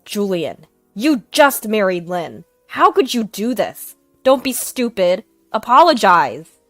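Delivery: father scolding son to apologize, stern. Acted.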